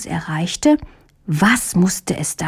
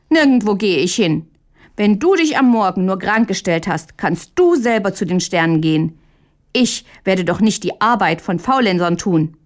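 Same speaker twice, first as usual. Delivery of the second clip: firm, indignant refusal; a touch of hurt outrage. Acted. Cheated Hähnchen refuses his lying brother, mild indignation. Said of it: "empört über den Betrug".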